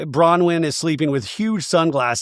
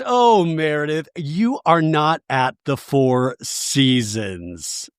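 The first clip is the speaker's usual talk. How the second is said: condescending; much slower than usual. Retold or imitated. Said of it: "Angie goes".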